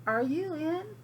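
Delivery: calling at the door. Acted. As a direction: call through the door, sing-song and polite. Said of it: "I called".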